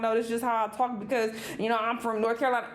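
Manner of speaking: mocking quote. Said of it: "you up here talking about".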